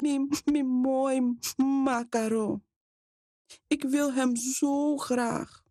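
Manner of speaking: hoog, langzaam en moe gesnotterd; zachter, moe van huilen. Acted. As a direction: laat de stem moe en klein worden na het huilen. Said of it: "Haar stem werd zachter". (Lola smeekt haar mama nog om de pop, moe en langzaam)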